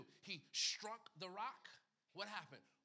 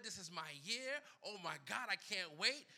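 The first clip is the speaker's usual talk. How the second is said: excited; 6 dB louder than usual. Retold or imitated. Voicing excited believer.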